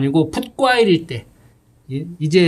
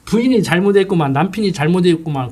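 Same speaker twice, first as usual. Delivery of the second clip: judging verdict; 3 semitones higher than usual. Retold or imitated. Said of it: "재판하듯이".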